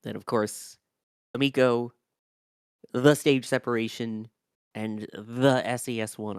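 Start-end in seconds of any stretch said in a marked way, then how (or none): 4.7-6.4 "the S E S one" said like a California freeway name, with "the" in front; drawn-out "the S E S one", like naming a California freeway; freeway-style "the". Real, not acted. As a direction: say "the S E S one" slowly, the way Californians say "the 405". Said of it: "like I'm talking about California freeways".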